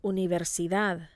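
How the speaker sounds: "Universidad" with the weight on DAD; stress on last syllable. Shown as a demonstration. Teacher models the rule for repeating, last-syllable stress. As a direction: lean on the final syllable of "Universidad". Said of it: "you must stress the last syllable".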